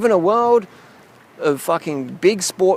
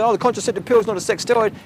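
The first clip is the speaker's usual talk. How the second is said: higher, quicker imitation of naysayers; mock objection; 5 semitones higher, faster than usual. Quoting people who deny the pill is a steroid, mock objection. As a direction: rattle off the objection in a raised mocking pitch. Voicing objectors he then rebuts.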